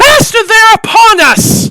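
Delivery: very loud, very high-pitched shrill scream. Voicing a character who spots the party and warns her master: high-pitched scream. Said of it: "that high-pitched, um, she screams out".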